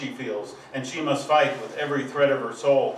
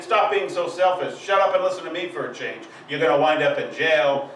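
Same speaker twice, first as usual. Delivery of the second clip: scolding father. Acted. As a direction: berate the son like a fed-up father. Poem voices scolding father.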